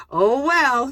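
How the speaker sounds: a shrugged-off "oh, well"; shrugging resignation. Shown as a demonstration. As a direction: say it like shoulders up, then dropping. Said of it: "shoulders up and shrug down".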